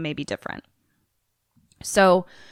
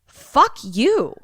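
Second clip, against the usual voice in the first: mock furious high rant; angry Josh; 6 semitones higher, much slower than usual. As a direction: spit it out, hurt and furious. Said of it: "And Josh is like".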